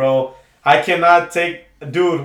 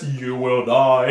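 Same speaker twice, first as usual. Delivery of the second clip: mocking dramatic warning; 5 semitones lower, much slower than usual. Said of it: "Fucking dramatic ass".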